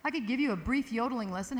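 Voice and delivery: ordinary talk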